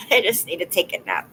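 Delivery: chuckling through the line; laughing. Real, not acted. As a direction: say it with a real little laugh.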